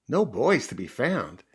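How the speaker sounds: put-on slow, swooping disbelief on "boys"; dismayed echo. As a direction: echo it like a crestfallen puppy. Puppy echoes the news in dismay.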